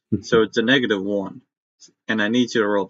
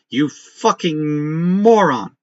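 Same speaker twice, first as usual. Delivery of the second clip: angry insult; 3 semitones higher, much slower than usual. Acted. Commander insults soldier.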